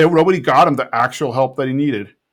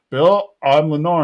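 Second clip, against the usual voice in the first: matter-of-fact announcement, barely acted; restrained retold confession; Hank as Lenore; 3 semitones higher than usual. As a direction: state it evenly, close to your own voice. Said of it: "stops Bill and says".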